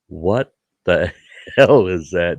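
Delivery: slow, laughing what-the-hell; half laugh it out in disbelief. Retold or imitated. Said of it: "I'm like".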